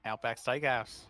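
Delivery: shaky attempt at Aussie; badly faked Australian accent. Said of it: "Yeah, I can't do an Australian accent".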